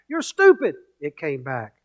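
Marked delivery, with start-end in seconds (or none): 0.1-0.7 high mock yell at the hillside; mock shout. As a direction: fling the insult out loud. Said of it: "I want you to shout out".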